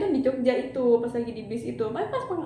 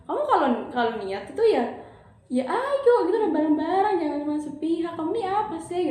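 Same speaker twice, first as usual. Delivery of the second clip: angry scolding; 5 semitones higher than usual. Retold or imitated. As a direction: scold him for not committing. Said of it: "Akhirnya aku kesel".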